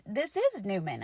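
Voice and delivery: put-on firm, falling child's statement; matter-of-fact confirmation. Child firmly confirms the name.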